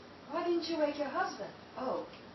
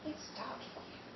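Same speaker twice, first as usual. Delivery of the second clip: nervous hush; 9 dB quieter than usual. Acted. Creeping into dark room.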